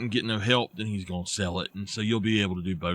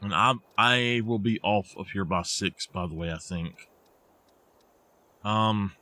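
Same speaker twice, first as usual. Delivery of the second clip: talking through hiccups; words broken by hiccups. Real, not acted. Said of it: "I got the hiccups".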